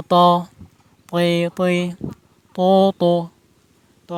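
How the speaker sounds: heavy emphatic ত, তৈ, তো, pressed hard on the tongue tip; heavy ত drills. Shown as a demonstration. Teacher drilling heavy ত sounds for learners. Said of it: "তারপর ত উচ্চারণ করতে হবে".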